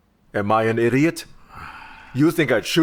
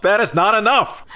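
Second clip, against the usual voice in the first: high, raised-voice protest; heated, insistent denial; angry outburst; 8 semitones higher than usual. Acted. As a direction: burst out in indignant frustration. Suspect's angry protest under questioning.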